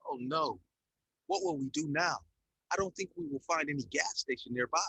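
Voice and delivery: high, anxious and fretful; worried voice. A narrator's reading. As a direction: sound worried and helpless. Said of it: "Kim said in a worried voice".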